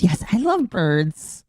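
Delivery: drawn-out robotic echo of the clip; slow mock text-to-speech voice. Streamer echoing the donation alert in a slow mock robot voice. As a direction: parrot the alert voice, slow and stiff.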